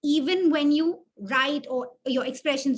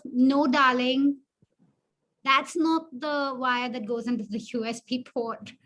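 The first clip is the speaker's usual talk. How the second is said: sarcastic. Shown as a demonstration. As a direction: make him feel small, sarcastically. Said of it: "if somebody said it to you like that".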